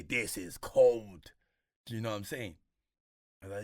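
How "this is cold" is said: loud, very slow approving verdict; slow emphatic praise. Retold or imitated. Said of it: "I know he would say".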